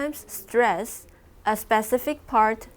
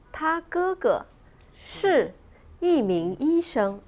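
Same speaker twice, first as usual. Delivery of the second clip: 是 isolated by pauses; stress on 是; 5 semitones higher, slower than usual. Shown as a demonstration. Teacher repeating the sentence for the class, stressing 是. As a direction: model the sentence, setting 是 apart. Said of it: "আমরা কোথায় জোর দিচ্ছি? প্রেডিকেটে।".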